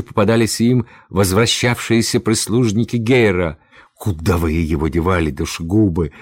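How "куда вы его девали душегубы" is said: low, quick angry demand; beside himself. A narrator's reading. Rescuer to the executioners' servants, angrily demanding. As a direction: demand it with contained fury. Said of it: "воскликнул Возницын, вне себя".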